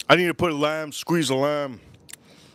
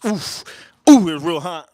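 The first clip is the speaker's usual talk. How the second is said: hot food in mouth; 3 semitones higher, 7 dB louder than usual. Real, not acted.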